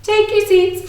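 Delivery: calling out high to the class. Real, not acted.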